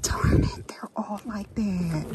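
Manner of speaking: whispered dismay; disappointed whisper. Real, not acted. Finding every sign damaged, whispering in dismay. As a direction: breathe out the letdown.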